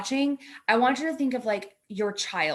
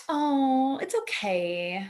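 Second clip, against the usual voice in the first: mock soothing calm; 3 semitones higher, much slower than usual. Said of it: "I'm not be like".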